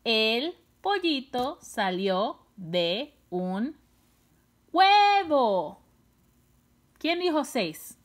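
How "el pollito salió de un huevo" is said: deliberate counting rhythm building to a stretched "huevo"; word by word. Shown as a demonstration. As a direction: pause after each word, then punch "huevo". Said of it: "¿Cuántas palabras son?".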